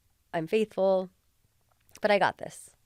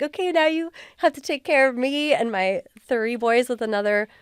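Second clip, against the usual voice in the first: higher, louder, rushed explaining; pleading to husband; 3 semitones higher, 4 dB louder than usual. Retold or imitated. Wife telling husband they must move to her parents', pleading. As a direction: lay out the hard news fast and apologetic. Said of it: "And now it's like".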